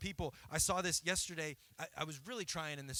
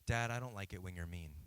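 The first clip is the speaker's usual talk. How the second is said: put-on sweet child; 8 semitones lower than usual. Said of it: "now he's really sweet".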